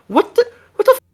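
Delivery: shrieking high and loud; outraged disbelief, yelling; angry outburst. Retold or imitated. Mendoza gets pissed.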